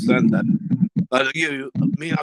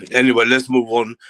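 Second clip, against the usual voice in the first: louder, brusque change of subject; forced move on; 8 dB louder than usual. Real, not acted. Still-angry host cutting himself off, loud and brusque. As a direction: shove the topic aside. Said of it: "over angry at the moment".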